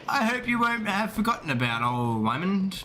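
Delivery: a hint of a chummy rogue; lightly put-on character voice; NPC voice. Voicing NPC Wymond in game.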